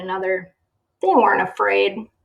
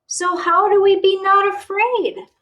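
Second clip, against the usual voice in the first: anxious question; 11 semitones higher, 6 dB louder than usual. Acted. Joey asks anxiously.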